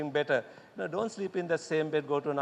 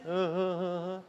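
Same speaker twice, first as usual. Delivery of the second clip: quieter, softer fake sobs; mock crying looking up; 3 dB quieter than usual. Shown as a demonstration. Teacher shows crying with head raised, soft mock sobs. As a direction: try sobbing with head up. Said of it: "crying like this".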